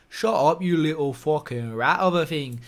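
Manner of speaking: rough go at mimicking an Irish fighter; lightly put-on impression of a trash-talker; Conor McGregor. Fighter telling off his rival in a clip, amateur impression. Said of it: "my impressions aren't the best".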